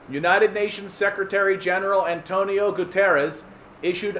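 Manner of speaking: measured news-reading voice. Acted. Reading the UN climate story aloud as news. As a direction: read it out like a bulletin.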